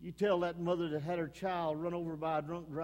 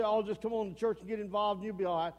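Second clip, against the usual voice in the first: mock breezy reassurance; faster than usual. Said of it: "We say".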